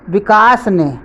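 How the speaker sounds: विकास ने said firmly, falling at the end; stress on विकास ने. Shown as a demonstration. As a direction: put the weight on विकास ने. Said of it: "पर बल दिया गया है". (विकास ने पर बल देकर)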